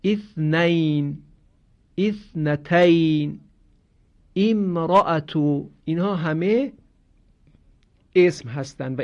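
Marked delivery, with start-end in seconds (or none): 0.0-5.7 اثنین، اثنتین، امرأتو spelled out slowly, each word set apart; slow careful demo. Shown as a demonstration. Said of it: "مثل کلمهٔ مثلاً". (تلفظ آهسته و شمرده)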